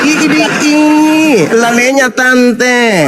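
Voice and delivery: slow, drawn-out mock effeminate voice. Mocking a caller's voice in a debate room, slow camp drawl. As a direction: sneer it out like a camp auntie.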